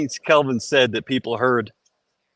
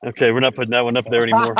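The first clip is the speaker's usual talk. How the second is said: fast, laughing through words; much faster than usual. Real, not acted. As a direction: giggle it out quickly.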